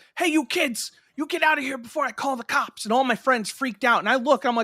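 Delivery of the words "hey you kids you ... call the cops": high-pitched, shouted yell. Retelling a kids' football game, a worker yells at them: imitating someone yelling. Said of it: "somebody yells".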